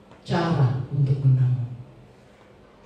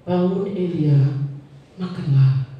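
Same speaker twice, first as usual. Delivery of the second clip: angel repeats the call, slower and a bit fuller; a firmer, more deliberate angel nudging Elijah; firmer angel's call; slower than usual. Acted. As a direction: say it slowly like a patient second wake-up. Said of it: "Lalu malaikat datang".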